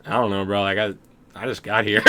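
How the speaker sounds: clueless bro. Retold or imitated. Voicing stranger met in storage room.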